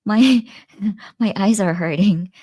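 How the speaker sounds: high, laughing fib about sore eyes; laughing excuse. Retold or imitated. Mother covering her tears for her daughter, laughing. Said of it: "I was like".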